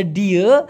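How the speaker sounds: "ডিয়ে" with a schwa ending; colloquial pronunciation. Shown as a demonstration. Teacher showing the changed ending, colloquial pronunciation. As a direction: say "ডিয়ে" as dee-uh. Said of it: "ডিয়াকে বলে".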